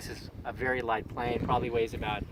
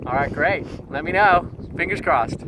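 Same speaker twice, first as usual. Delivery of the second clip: excited; 5 semitones higher, 7 dB louder than usual. Real, not acted. Calling out hopefully to the team.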